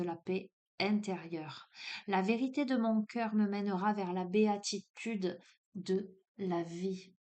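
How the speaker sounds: reads the card text in a measured, solemn tone; solemn oracle reading of the card. Acted. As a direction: deliver the card message like an oracle.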